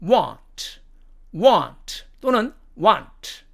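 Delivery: "want" with a lengthened vowel; American pronunciation. Shown as a demonstration. Teacher giving the first variant, long American vowel. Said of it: "미국식 발음으로는".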